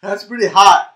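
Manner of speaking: gasping from the heat; burned tongue. Real, not acted. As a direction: speak through a burning mouth. Just ate the spicy chip.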